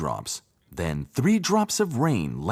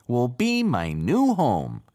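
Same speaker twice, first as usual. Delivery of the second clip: happy; 4 semitones higher, 4 dB louder, slower than usual. A narrator's reading. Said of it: "thought the frog happily".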